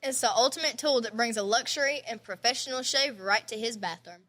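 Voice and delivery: scripted podcast sponsor read. Real, not acted. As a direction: read the sponsor copy evenly.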